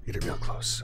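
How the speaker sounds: breathy whisper right at the mic; whispered mic test. Shown as a demonstration. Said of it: "Let me get it really close".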